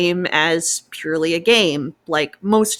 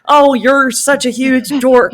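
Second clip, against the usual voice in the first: mock teasing, higher and louder; teasing reply; 6 semitones higher, 6 dB louder than usual. Partner pilot teasing back during the Exalted ending, higher and louder mock teasing. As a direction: tease your partner fondly for being a dork.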